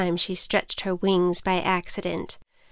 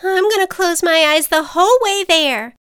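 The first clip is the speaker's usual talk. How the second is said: much higher, louder scared butterfly; terrified butterfly; 10 semitones higher, 6 dB louder than usual. Acted. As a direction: squeak out your fear. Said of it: "The butterfly was terrified".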